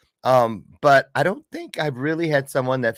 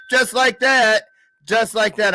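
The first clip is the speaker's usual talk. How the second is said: excited; 9 semitones higher, 5 dB louder than usual. Real, not acted.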